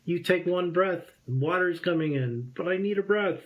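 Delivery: high, urgent scolding voice; panicked inner voice yelling no, mostly pitch not volume; frantic inner voice. Retold or imitated. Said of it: "the other voice is like".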